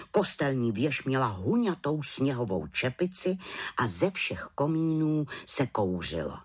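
plain reading voice

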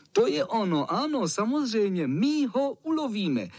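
put-on high, eager cheer of boys. Boys cheer the plan to hunt the cat, rising high and eager. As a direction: rejoice at the tiger hunt plan. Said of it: "jásali ostatní".

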